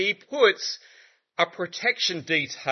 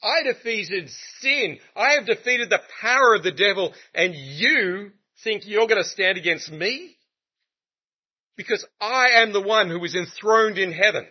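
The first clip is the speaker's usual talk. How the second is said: Jesus declaring victory; 4 semitones higher than usual. Acted. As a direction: proclaim each victory deliberately. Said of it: "Jesus is going".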